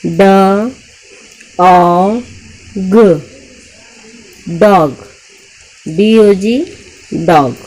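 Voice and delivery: loud, slow blending of sounds, then the word; sounding out word. Shown as a demonstration. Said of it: "three letter word पढ़ेंगे". (ध्वनियाँ जोड़कर पढ़ना)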